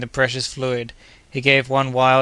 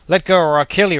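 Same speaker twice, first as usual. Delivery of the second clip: higher, louder frantic threat; desperate threat; 5 semitones higher, 5 dB louder than usual. A narrator's reading. Kennedy fighting Joe for the rifle, loud frantic threat. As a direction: threaten him while wrestling.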